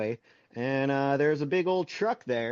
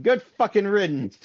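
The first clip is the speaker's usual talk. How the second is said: higher, louder sendoff curse; mock gruff grandpa; 5 semitones higher, 4 dB louder than usual. Grandpa glad the truck is gone, mock gruff curse. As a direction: spit it after the truck.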